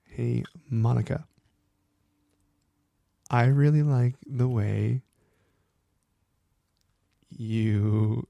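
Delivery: slow, halting, holding in laughter; fighting back a laugh; trying not to laugh. Real, not acted. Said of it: "I'm trying not to laugh right now".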